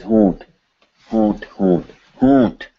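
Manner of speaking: HAUNT with the whole word hummed through the nose; "haunt" fully nasal, nose buzzing; nasalized. Shown as a demonstration. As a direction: let the nose vibrate on "Haunt". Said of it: "The whole thing is nasalized".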